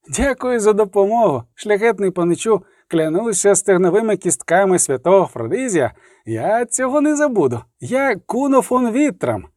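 put-on an eager young raubritter swearing by a saint; young knight's voice. Young knight Kuno thanks. (юний лицар, вдячно, вищим голосом)

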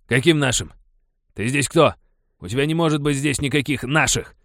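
loud, high coarse retort; rough miner denying the boy belongs. A narrator's reading. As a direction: snap it back rudely. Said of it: "грубым голосом пояснил".

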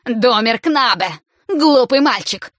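loud, slow angry yell; enraged governess yelling at the boy, loud and slow; furious shout. A narrator's reading. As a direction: berate the boy in rage. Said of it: "взбешённая Бонна кричит".

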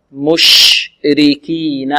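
مشركين with the ش spread and hissed, drawn out; spread sh sound. Shown as a demonstration. Tajwid teacher demonstrating tafashshi on مشركين. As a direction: let the air spread on the ش in مشركين. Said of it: "نعطي الشين تفشيها".

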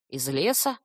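low grumbling creature. Acted. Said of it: "проворчал корневик". (ворчливо)

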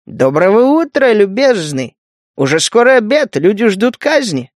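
a creeping spider sweet-talking the man; insinuating. Acted. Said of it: "вкрадчиво проговорил".

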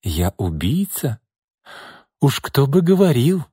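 mock the accusation with a smile; snide. Irma snidely throws the accusation back. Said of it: "ехидно улыбнулась Ирма Бежецкая".

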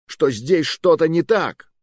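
slow, high stress on что-то; urgent pleading; insistent. Acted. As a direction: lean hard on что-то.

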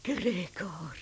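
soft, voiceless call of his name; a mother whispering to her hidden son. Acted. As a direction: breathe his name into the dark room.

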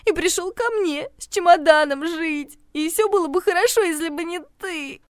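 it was all fine until you came; tearful complaint. Acted. Regina tells how Steve moved in, tearfully.

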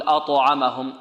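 أطعمهم with a rounded u after ط; qalqalah leaning to u. Shown as a demonstration. Teacher showing another mistake, أطعمهم said as "a-tu-amahum". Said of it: "نميلها الضم".

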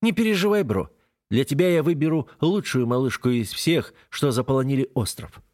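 high, upbeat assurance; promising tone. Acted. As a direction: sell it like a big promise. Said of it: "многообещающим тоном заверяет".

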